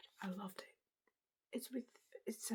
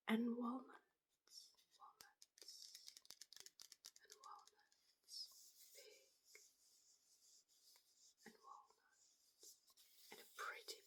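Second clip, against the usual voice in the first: ASMR whisper. Real, not acted. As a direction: breathe the words out gently.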